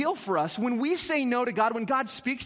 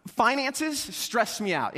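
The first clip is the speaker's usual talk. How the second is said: slow confession; much slower than usual. Shown as a demonstration. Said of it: "Anybody else in that boat?".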